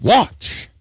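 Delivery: "Watch" high and rising; emphatic. Shown as a demonstration. Preacher contrasting Jesus' word with "watch tomorrow", emphatic. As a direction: lift "Watch" sharply upward. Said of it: "He didn't say".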